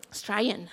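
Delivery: Australian slurred to "Strayan"; broad Aussie slurring. Shown as a demonstration. Preacher leading the crowd in saying it, Australian slurred to "Strayan". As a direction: say Australian as two syllables, "STRAY-an". Playfully clips the national word.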